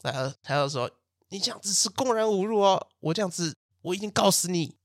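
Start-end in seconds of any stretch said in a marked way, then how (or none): 1.3-4.8 higher, hammed-up indignant threat; old man threatening to sue the cursing woman, hammed-up; mock outrage. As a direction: play an old man faking fury. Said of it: "那两个老人就演那个爆气嘛".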